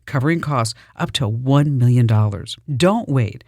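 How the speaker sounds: smooth, upbeat sponsor read for the show; radio ad read. Acted. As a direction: sell it like a host-read radio ad. Host reads sponsor ad.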